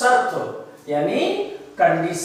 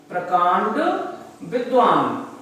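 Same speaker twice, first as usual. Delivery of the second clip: one word at a time, paused between; dictation. Shown as a demonstration. Teacher repeating the meaning for note-takers, word-by-word dictation. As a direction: pause clearly between "प्रकांड" and "विद्वान". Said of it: "आप लिख लीजिए इसको".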